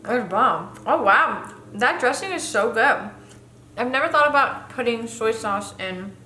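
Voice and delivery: talking with food in mouth; words round a bite of food; mouth full. Real, not acted. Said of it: "sorry, I'm talking with my mouth full".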